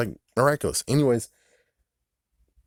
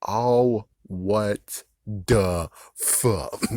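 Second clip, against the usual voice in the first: disgusted reaction; much slower than usual. Retold or imitated. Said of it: "I'm like".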